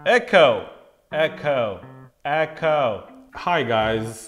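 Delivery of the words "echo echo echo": hallway echo. Shown as a demonstration. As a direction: echo fading over three calls. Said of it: "as you can hear, we have this lovely Echo".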